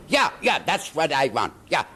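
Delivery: put-on high, eager German director's accent with a v in vant. German director eagerly approving the smoke in a German accent. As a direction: Yeah yeah that's what I vant, in a German accent. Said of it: "and he had a thick accent".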